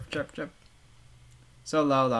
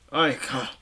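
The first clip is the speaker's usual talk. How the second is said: calling out a name; 6 dB louder than usual. Acted. Narrator calling to the girl, calling out louder.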